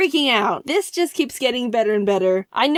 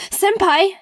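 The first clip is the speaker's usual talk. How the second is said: excited squeal; 9 semitones higher, 5 dB louder than usual. Retold or imitated. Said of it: "I was like".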